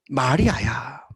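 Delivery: low, hushed voice of Jesus calling Mary; gentle call of Jesus. Acted. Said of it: "예수님의 창조적 소리". (낮고 부드럽게 이름을 부르는 예수님의 목소리)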